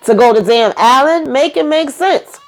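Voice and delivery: exasperated. Real, not acted. Exasperated recap commentary.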